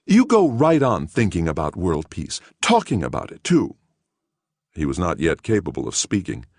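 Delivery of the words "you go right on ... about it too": put-on earnest older woman.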